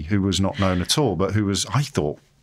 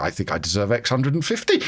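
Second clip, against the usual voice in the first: laughing; 2 semitones higher than usual. Retold or imitated. Haggling with programme controller.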